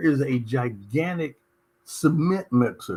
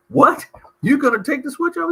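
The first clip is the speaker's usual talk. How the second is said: startled son; 11 semitones higher, 5 dB louder than usual. Retold or imitated. Young son alarmed at dad.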